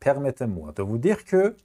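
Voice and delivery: drawn-out teacher read; slow classroom French; slow model phrase. Shown as a demonstration.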